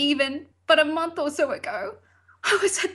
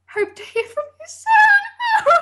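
mock sultry sign-off; 6 dB louder than usual. Reading dating ad mockingly.

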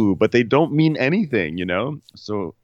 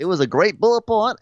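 imitating Crystal; 10 semitones higher, 3 dB louder than usual. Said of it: "I said it the way I was supposed to say it".

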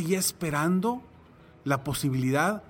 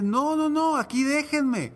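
higher, insistent no, no, no; stubborn refusal; 5 semitones higher than usual. Retold or imitated. Drowning man refuses the helicopter, higher insistent refusal. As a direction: refuse firmly, sure of rescue.

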